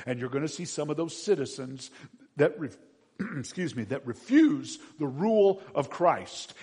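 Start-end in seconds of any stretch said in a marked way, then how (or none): none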